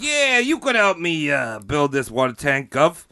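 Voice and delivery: put-on a mixed Italian, Jersey and British accent, lightly done; imitating a London manager in a muddled Italian-Jersey-British accent. Talent manager hiring Giovanni, in a muddled Italian-Jersey-British accent. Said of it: "the most Italian Jersey British I've ever done".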